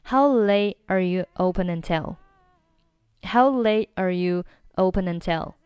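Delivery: "late" cut before "are", its t unreleased; easy version with a break after "late"; partly linked. Shown as a demonstration. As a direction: link only "open until" as ope-nuntil. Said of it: "连起来试试看".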